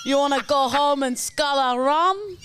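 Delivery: imitating a friend's Jamaican-ish accent; copied put-on accent, later called Jamaican. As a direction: have a go at a lilting Jamaican-style accent. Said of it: "Let me, let me copy".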